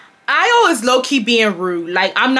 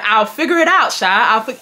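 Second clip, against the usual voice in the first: put-on UK African accent. Unsure how they say it, attempted UK African accent. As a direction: imitate his UK African English, then break off. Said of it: "his U K African accent".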